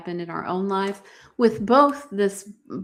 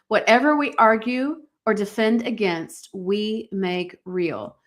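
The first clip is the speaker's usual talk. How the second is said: deliberate motto. Shown as a demonstration. Repeats her key line as a motto.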